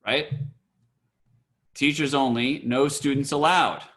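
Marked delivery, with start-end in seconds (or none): 1.7-3.8 "Teachers only" rising, then "no students allowed" falling; punctuated sign reading. Shown as a demonstration. Teacher confirms the sign's punctuation, "Teachers only" and "no students allowed" as separate phrases. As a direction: read it as two phrases, split after "only". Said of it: "Where punctuation on this sign".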